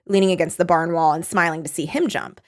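ordinary talk, nothing marked

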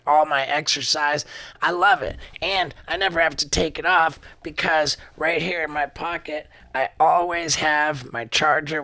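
upbeat sponsor read, selling it. Acted. Host pitching his sponsor to listeners, upbeat ad read. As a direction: pitch the tracker to listeners like a friend.

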